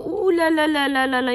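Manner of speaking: high, sing-song ooh la la; excited exclamation. Real, not acted. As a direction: marvel at the heat out loud. Exclaiming at the heat.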